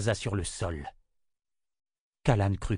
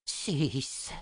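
soft, drawn-out murmur of a name; 3 semitones higher, 5 dB quieter than usual. A narrator's reading. Z seeing Six enter the room, murmur. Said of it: "murmura Z".

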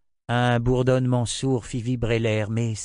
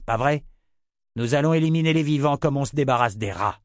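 higher, louder and harder as it goes; ruthless; 4 semitones higher, 3 dB louder than usual. Acted. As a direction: order the purge coldly. Richard's ruthless plan.

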